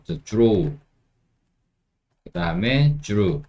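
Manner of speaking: drew said as "juru", the d softened toward j; American dr sound. Shown as a demonstration. Teacher showing American pronunciation, dr like j. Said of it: "이렇게 주라고 발음하죠".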